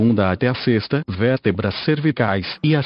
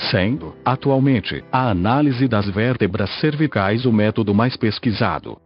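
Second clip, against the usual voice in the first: robotic text-to-speech voice. Real, not acted. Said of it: "falo através desta voz sintetizada".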